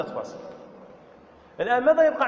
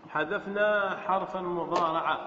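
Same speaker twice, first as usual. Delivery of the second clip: slower, lower, measured restatement; slow repetition; 4 semitones lower, 4 dB quieter than usual. Shown as a demonstration. Teacher repeats the grammar step for students, slowly and lower.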